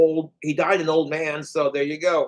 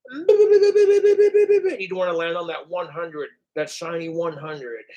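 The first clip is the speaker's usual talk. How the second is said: game show host; slower than usual. Pretend. Host warning the contestant about the hundred, mock announcer voice.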